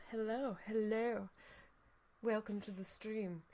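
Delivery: slow hushed hello, no voice; whisper. Pretend. Streamer softly whispering hello to chat. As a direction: breathe the greeting softly.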